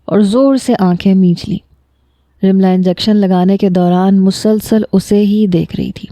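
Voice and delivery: plain reading voice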